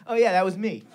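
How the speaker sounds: quiet, offhand retold admission; casual, unbothered mock confession; nonchalant. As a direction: toss it off softly, as if nothing happened.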